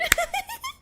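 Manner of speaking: high giggling burst; high laugh. Real, not acted. Laughs at own cursing.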